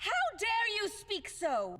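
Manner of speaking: high, slow, indignant outburst; how dare you, rising up; outraged cry. Acted. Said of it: "Don't scream at me".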